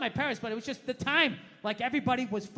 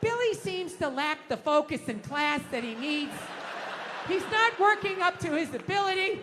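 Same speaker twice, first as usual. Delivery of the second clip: prim teacher; 3 semitones higher than usual. Retold or imitated. Teacher voice on report.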